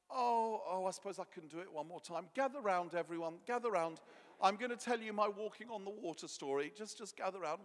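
put-on old storyteller gathering listeners; hushed creepy legend telling. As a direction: call them round to hear the tale. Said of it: "Peter would have probably been".

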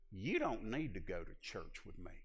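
lightly imitated Southern country drawl, slow at the close; a hint of the boss's slow Southern drawl. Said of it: "in his old country drawl".

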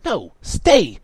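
high, loud command; urgent high-pitched order; insistent. A narrator's reading. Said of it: "she insisted".

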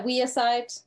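"Wearside" drawn out as "WEE-uh-side"; local pronunciation. Shown as a demonstration. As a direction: slowly show how locals say "Wearside". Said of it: "how do you say Wearside".

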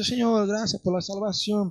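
mock self-pitying prayer, softly sighed. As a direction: imitate a half-hearted, woe-is-me thanks. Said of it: "hasta autocomiseración".

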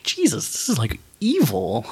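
awed whisper. Retold or imitated. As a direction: breathe it out in horror. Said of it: "where I'm like".

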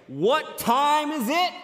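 high, loud, drawn-out rallying call; team cheer yell. Retold or imitated. Biggest guy yelling to the huddle, loud rallying call. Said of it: "he would yell out this phrase".

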